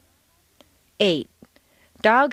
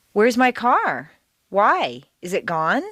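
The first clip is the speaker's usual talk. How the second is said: alarmed question. Shown as a demonstration. Teacher acts out an upset owner missing the car, alarmed. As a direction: sound like your car was just stolen. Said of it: "your intonation rises up along with them".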